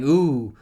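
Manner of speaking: imitated drawn-out "ooh"; mock yelling. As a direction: call out a mild, rising ooh. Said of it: "the houses yelling".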